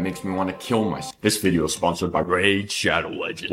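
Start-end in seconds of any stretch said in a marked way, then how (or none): 1.2-3.5 eager ad read voice; sponsor read. Pretend. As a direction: announce the sponsor brightly. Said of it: "why I would never do a sponsor".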